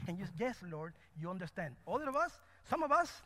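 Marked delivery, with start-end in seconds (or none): 0.4-1.7 low, soft and submissive; meek quiet reply. Acted. Preacher as believer answering the Lord in conversation, quietly obedient. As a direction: answer softly, dropping the voice.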